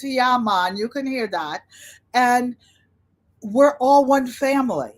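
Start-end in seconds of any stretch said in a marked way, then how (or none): 0.0-0.8 lightly imitated Jamaican accent. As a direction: toss in a Jamaican-accented catchphrase. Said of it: "the Jamaican accent".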